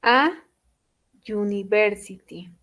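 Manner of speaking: "A university", with university starting on a "you" sound; respecting the sound. Shown as a demonstration. Teacher modelling article by sound, A before Y-sounding university. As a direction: say "A", pause, then "university" with a Y onset. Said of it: "vamos a respetar el sonido".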